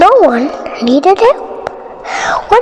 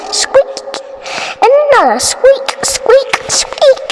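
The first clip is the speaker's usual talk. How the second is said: squeaking; 10 semitones higher than usual. Acted. Mouse squeaks imitated.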